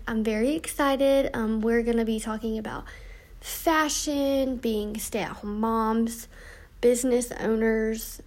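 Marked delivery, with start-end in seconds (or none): 3.4-6.3 yawning. Real, not acted. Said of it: "Sorry, I keep yawning".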